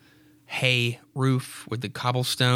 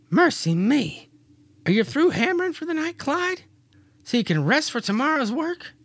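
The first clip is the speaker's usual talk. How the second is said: high, far-off wifely voice, much higher; Mary's voice; 13 semitones higher than usual. Acted. Wife asking Clyde to stop hammering, high and fussy. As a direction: play the fussing young wife, pitched way up.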